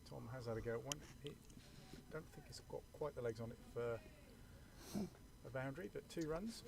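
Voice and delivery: talking while munching fruit; commentating through a mouthful; mouth full. Real, not acted. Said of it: "Sorry if you can hear me munching".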